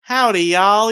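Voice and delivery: howdy with a Southern twang; hammy Texan hello; Southern accent. Pretend. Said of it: "why do you have a good Southern accent there".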